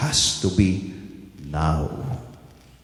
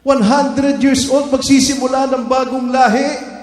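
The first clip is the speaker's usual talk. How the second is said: voice of God; 11 semitones higher, 4 dB louder than usual. Acted. Preacher voicing God's call.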